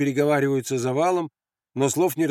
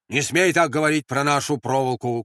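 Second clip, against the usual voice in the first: mildly raised warning; shouted rebuke. Acted. Sentry defending their barbed wire, calling out. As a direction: call out a rebuke. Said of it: "крикнул кто-то".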